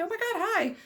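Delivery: high-pitched squeal of delight; excited greeting. Real, not acted. Vlogger greeting fans table after table, high excited squeal. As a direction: gush hello at each fan. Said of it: "one table after another being like".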